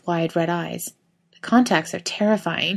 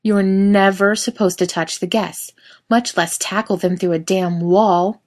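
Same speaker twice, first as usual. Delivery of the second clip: angry scolding, louder; furious; 4 dB louder than usual. Acted. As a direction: berate him hard. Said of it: "He looks furious".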